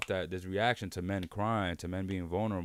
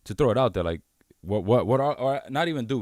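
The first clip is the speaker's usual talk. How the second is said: louder emphatic; 4 semitones higher, 9 dB louder than usual. Real, not acted. Emphatic question.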